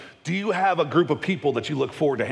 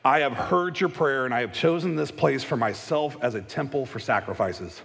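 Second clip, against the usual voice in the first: scripture reading. Acted. Reads scripture aloud.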